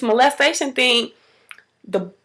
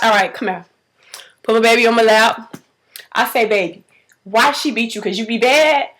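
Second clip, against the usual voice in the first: put-on lower, composed questioning of a child; toned-down; 3 semitones lower than usual. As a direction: reenact a mother reining herself in. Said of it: "took it down a notch".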